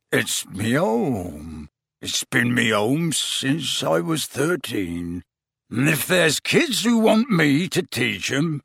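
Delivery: slow, choked-up giant; tearful. A narrator's reading. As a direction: speak through tears, slowly. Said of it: "fat tears still leaking".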